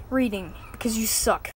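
soft whispered insult. Acted. The console sneering at the boy in a whisper. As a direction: breathe the insult out.

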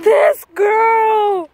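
exclaiming. Real, not acted. Exclaims at Shauna.

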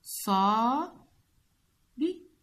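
whispered prompt for the class. Shown as a demonstration. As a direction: breathe صا out as a hint. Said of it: "وركب من المقاطع كلمات".

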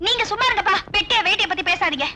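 tag. Acted. Daughter scolds her joking father.

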